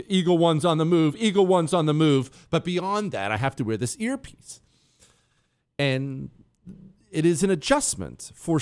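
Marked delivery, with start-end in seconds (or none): 0.1-2.5 mock Secret Service. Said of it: "I always pretend like I'm in the Secret Service and I talk into my wrist".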